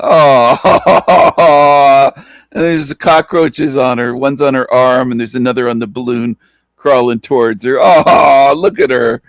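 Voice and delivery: mock her through laughter; laughing mockery. Real, not acted. Gloating over cockroach meme.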